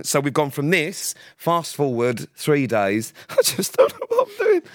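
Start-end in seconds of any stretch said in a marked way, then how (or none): 3.3-4.6 high, wailing imitation of tears; mock crying. Mocking a hungover friend, a high fake sob. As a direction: lay it on like a sobbing wreck. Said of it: "to tears".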